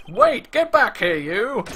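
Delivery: high, slow shout after someone running off; guard yelling as the player slips past; calling after someone. Acted. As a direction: yell it after a fleeing intruder. Guard calls after fleeing player.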